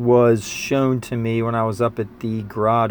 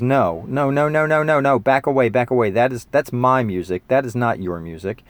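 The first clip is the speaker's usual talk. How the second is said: mock protective. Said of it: "what I wanted to say was".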